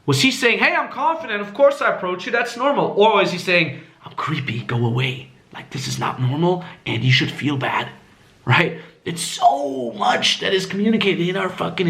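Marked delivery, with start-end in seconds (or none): 0.6-2.9 confident. Shown as a demonstration. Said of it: "what was his tonality saying". 4.0-7.9 subdued, furtive voice; low-key, as if unwelcome; creepy tonality. Retold or imitated. Voicing what the student's tone said, subdued and creepy. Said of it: "what was his tonality saying".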